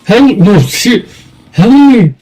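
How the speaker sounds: high, yelped mock pleas; high-pitched retold panic; imitating panicked cries for help. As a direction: act out a freaked-out friend crying for help. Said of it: "he's like".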